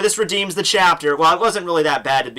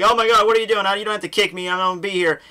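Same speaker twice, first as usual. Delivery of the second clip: higher-pitched mock panic; imitating someone rattled; retold freak-out; 5 semitones higher, faster than usual. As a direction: play a complaining freak-out lightly. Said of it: "Elwood's freaking out".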